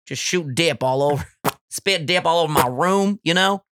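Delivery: put-on Southern accent. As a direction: play a dip-spitting good old Southern boy. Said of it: "The Southern accent to me is the best one".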